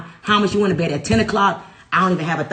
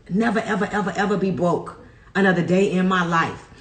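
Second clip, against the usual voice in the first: laughing declaration. Real, not acted. Laughing through affirmation.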